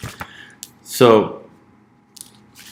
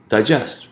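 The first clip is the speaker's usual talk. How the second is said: "digest" slowly, stress on "gest"; slow stress demo. Shown as a demonstration. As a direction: draw out "digest" with stress on the second syllable. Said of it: "Ah, right".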